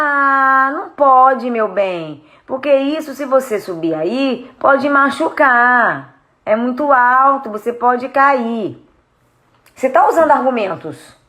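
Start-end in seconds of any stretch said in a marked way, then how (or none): 0.0-8.9 slow, drawn-out gentle pleading; meek coaxing. Shown as a demonstration. Parent warning child not to climb, meek and coaxing. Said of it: "Falar de um jeito manso".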